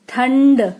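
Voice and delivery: ठंड slowed, the न sound through the nose only; nasal demo. Shown as a demonstration. Teacher demonstrating anusvara to pupils, slow nasal ठंड. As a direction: draw out ठंड with a nasal hum. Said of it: "नाक से निकलती है ये बिंदु".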